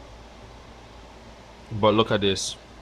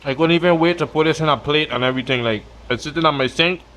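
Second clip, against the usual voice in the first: talking while chewing; words around a mouthful; mouth full. Real, not acted. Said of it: "Sorry for talking with my mouth full".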